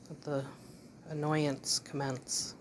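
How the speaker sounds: wry drag. Real, not acted. Wry remark on dog.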